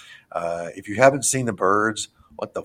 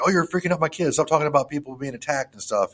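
upset mom; 6 semitones higher than usual. Retold or imitated. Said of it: "then the mom was like".

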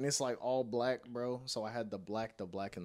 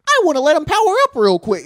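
mock villain voice; 12 semitones higher, 12 dB louder, faster than usual. Mocking a fighter's wish.

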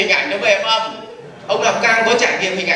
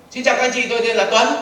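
quick introduction; 4 semitones higher, faster than usual. Shown as a demonstration. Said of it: "nói nhanh là cung cấp thông tin".

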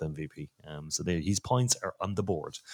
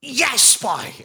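higher, louder whoop of joy; excited cheer; 4 dB louder than usual. Real, not acted. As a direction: cheer the goal as it lands. Free kick goes in.

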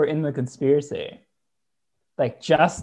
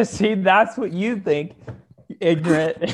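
mock scold; 3 semitones higher, slower than usual. Mock conspiracy believer scolding.

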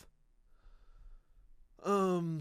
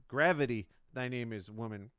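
mock orator punchline; Lincoln doing stand-up; 4 dB louder than usual. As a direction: declaim it like a hammy comic. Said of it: "he says".

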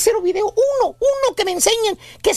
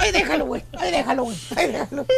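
laughing; 6 semitones lower, 4 dB quieter, much faster than usual. Real, not acted. Laughing through repeated line.

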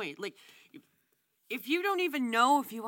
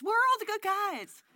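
whiny mock cry, higher; mock whine; 8 semitones higher, 4 dB louder than usual. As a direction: whine it like a sob. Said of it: "she's been saying that".

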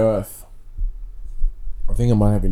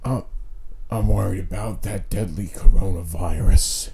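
lightly mocked Chinese accent, lower; 4 semitones lower, 4 dB quieter than usual. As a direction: put on a hint of a mock Chinese accent. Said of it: "gonna do a Chinese accent".

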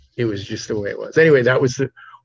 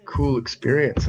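excited calling out; 4 semitones higher, 5 dB louder than usual. Retold or imitated. Running over calling medicine man.

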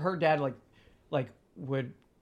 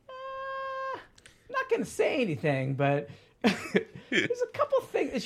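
higher, laughing gentle hint; imitating Lauren; slower than usual. Boyfriend quoting his girlfriend's careful hint, laughing and higher. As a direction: tiptoe around it with a laugh.

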